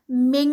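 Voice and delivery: من said loud, its nun hidden toward a heavy qaf; heavy ikhfa. Shown as a demonstration. Teacher demonstrating heavy ikhfa to students, loud. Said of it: "قاف کی sound دینی ہے".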